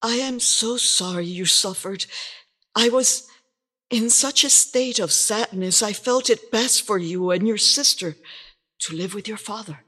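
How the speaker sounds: soft. A narrator's reading. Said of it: "rocked her softly".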